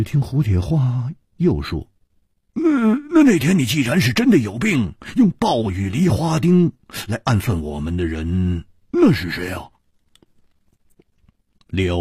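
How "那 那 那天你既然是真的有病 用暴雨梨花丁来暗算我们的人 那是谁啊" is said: lightly voiced challenger, starting high and easing down; blunt questioner Hu. Hu questioning who fired the darts, challenging. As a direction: press the accusation in a quick raised voice.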